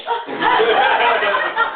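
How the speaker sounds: cracking up; a high, breathy laugh; real laughter. Real, not acted. Teller laughing to the audience about being caught out.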